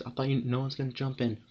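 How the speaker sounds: half-voiced imitation of a yell; retold scream. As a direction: act out a friend's scream with the volume held back. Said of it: "like, he screams".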